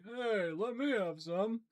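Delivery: high, slow hungry zombie. Retold or imitated. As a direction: play a greedy zombie asking for a bite. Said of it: "And he's just like".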